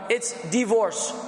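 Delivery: slow, careful "divorce" with a short di-, dih-VORCE; careful correct pronunciation. Shown as a demonstration. Teacher modelling "divorce" slowly for students. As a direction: spell out "divorce" slowly for the class. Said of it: "correct me if I'm wrong".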